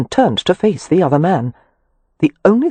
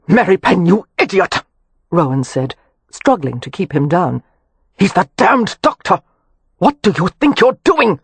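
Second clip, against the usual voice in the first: exasperated yell; 3 semitones higher than usual. A narrator's reading. Rowan struggling to hold Kev down, yelling at him. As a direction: bark at him while holding him down.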